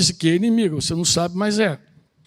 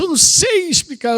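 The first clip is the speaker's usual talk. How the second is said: a mild higher imitation of the woman; mock woman quote; 8 semitones higher than usual. Pastor mimicking a confused woman, lightly higher. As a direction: lift "Eu não sei explicar" up high, lightly mimicking her. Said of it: "quando ela diz assim".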